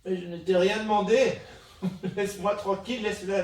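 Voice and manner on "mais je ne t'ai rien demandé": laughing. Real, not acted. Scolding the phone assistant, laughing.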